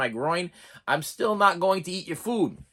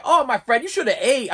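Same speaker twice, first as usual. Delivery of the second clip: higher, gently scolding motherly voice; doting Portuguese lady; 5 semitones higher, 4 dB louder than usual. Retold or imitated. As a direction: tut at him like a caring auntie. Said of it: "Portuguese lady comes in again".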